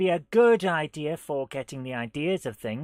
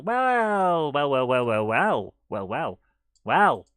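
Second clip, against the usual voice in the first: musing wells; 3 semitones lower, 4 dB louder, slower than usual. Pretend. Musing drawn-out wells, falling pitch.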